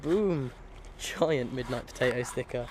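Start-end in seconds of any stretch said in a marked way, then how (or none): 0.0-0.5 excited. Real, not acted. Showing off the sticker.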